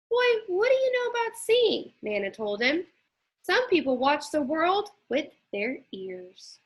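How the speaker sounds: a lively grandma brushing off the question; Nana. Acted. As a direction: grandmother cheering up her grandson. Nana's voice again.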